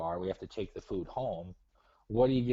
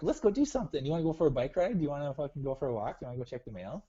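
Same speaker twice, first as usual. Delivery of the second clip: put-on excited girlfriend voice; 5 semitones higher, faster than usual. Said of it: "she wants to, like".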